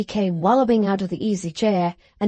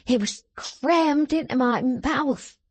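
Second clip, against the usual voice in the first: dismal; 4 semitones higher, slower than usual. Acted. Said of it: "the dismal youth replied".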